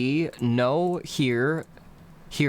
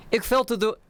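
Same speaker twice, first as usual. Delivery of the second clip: risky phrasing; 7 semitones higher than usual. Shown as a demonstration. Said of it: "They're gonna hear".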